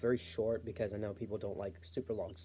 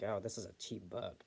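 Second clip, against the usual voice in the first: put-on Valley Girl voice; 3 semitones lower, 8 dB quieter than usual. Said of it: "annoying Valley Girl voice".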